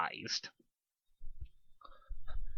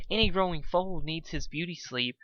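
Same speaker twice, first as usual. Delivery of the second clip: gentle concern; 5 semitones higher than usual. Acted. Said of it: "said Fluttershy with concern".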